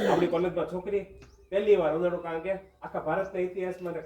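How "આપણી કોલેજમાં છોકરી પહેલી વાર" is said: loud jeering cry; mock boys' jeering shout. College boys jeer at the first girl, loud mocking shout.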